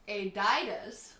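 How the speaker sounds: Adidas as AY-die-dus, slowly; drawn-out mock Adidas; silly Adidas. Shown as a demonstration. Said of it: "top five ways to say Adidas".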